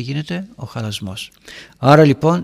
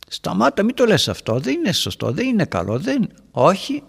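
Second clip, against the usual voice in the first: higher, urgent protest; mock urgent plea, pitched up; insistent pleading; 7 semitones higher than usual. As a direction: press him to stop, voice climbing. Retold argument, insisting.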